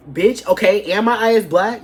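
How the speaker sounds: loud, high indignant snap; offended retort. Retold or imitated. To the coworker who mocked her eye, loud indignant snap. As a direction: clap back at the coworker, offended.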